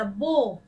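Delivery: बो with a long, round O; teacher's slow, stretched बो; O vowel demo. Shown as a demonstration. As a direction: sound out बो with a clear O. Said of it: "ओ की तरह".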